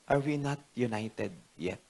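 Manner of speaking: soft, slow retold question; understated, measured query in prayer; questioning God. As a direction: put it to God slowly and quietly. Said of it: "ang tanong ko po sa Panginoon".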